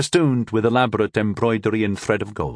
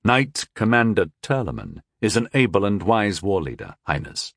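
even. Acted. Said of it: "I said evenly".

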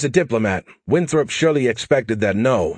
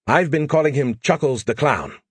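lightly raised, quick, cocky AI voice; brash AI pestering Joe for help; cocky alien AI; 5 semitones higher than usual. Acted. Skippy names the diplomat.

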